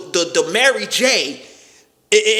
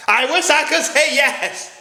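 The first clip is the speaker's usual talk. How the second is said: higher, slow, drawn out with regret; mock-tragic lament; 8 semitones higher than usual. Shown as a demonstration. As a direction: stretch it like a sad confession. Repeats the line for effect.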